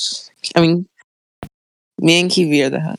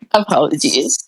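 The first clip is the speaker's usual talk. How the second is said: choking on water. Real, not acted. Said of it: "I'm choking on water".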